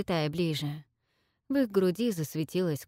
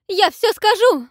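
very high, loud squeal; shrill squeal; 12 dB louder than usual. A narrator's reading. Selsete squeals to the dragon, high squeal. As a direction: squeal it out louder. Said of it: "взвизгнула она громче".

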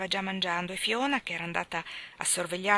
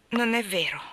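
rebellious denial; 5 dB louder than usual. Acted. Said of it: "mi ribellai".

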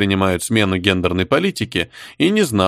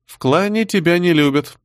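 gloating, higher-pitched jab; mother taunting the daughter with mock sweetness; snide; 8 semitones higher than usual. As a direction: needle her with a sly sneer. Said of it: "ехидно сообщила".

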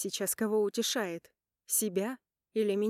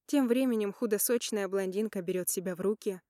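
ordinary talk, nothing marked

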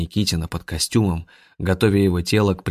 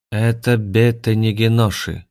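lifeless voice; 3 semitones higher, 4 dB louder than usual. Acted. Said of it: "равнодушным безжизненным голосом".

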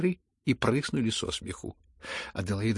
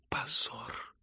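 hissed stage whisper; loud whisper; 2 semitones higher, 7 dB quieter than usual. A narrator's reading. The mother whispers her shame aloud. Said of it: "громко прошептала".

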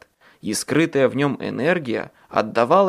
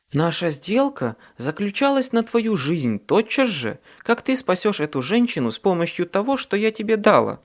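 cold fairy voice; 6 semitones higher than usual. Acted. Faerie godmother insists on bargain.

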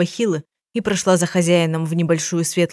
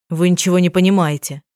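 ordinary delivery

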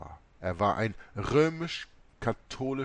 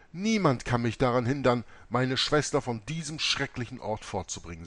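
firm; 3 semitones higher, 5 dB louder than usual. Acted. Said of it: "sagte ich bestimmt".

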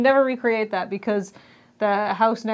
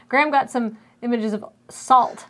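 put-on Canadian accent. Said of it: "Let's say this in a Canadian accent".

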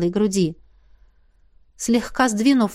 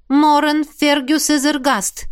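slow, even-toned reciting of the name; bored call while peering into the artefact; monotone call; 5 semitones higher, slower than usual. Acted. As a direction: drone the name as a chore. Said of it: "монотонно позвала она".

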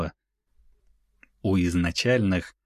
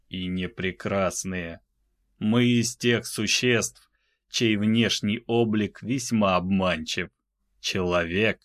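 медленный, тихий и безжизненный; говори медленно, без эмоций; мёртвый ледяной голос. Acted. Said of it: "мёртвым, криогенным голосом". (медленный мёртвый голос)

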